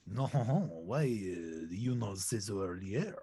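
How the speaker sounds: put-on octopus redone in a light French accent. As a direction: try the line again, this time a bit French. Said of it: "I am going French".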